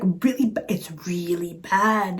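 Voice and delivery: slow, breathy near-whisper; hushed emphasis. Real, not acted. Storyteller confides how bad the date went, slow whispered emphasis.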